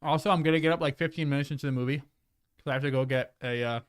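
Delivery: talking while chewing; words around a bite of apple; mouth full. Real, not acted. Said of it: "I shouldn't talk with my mouth full".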